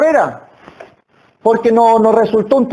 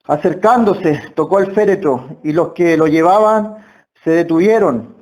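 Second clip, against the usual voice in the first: reading the verse; 5 semitones lower than usual. Shown as a demonstration. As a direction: read the verse aloud, lower and measured. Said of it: "Versículo catorce".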